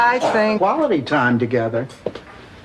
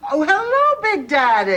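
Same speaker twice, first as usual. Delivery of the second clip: bright phone greeting; 11 semitones higher than usual. Acted.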